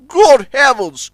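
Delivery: high, loud, slow exclamation; shocked cry. A narrator's reading. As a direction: gasp it out in shock. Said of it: "cried Top Hat".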